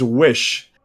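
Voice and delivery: "wish" said low, mimicking a British vowel; lightly mocked British "wish". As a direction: parrot how he says "wish". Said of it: "look at the way he says".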